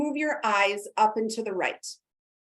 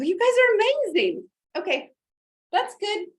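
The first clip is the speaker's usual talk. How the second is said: excited praise; 11 semitones higher than usual. Real, not acted. Cheering on the group.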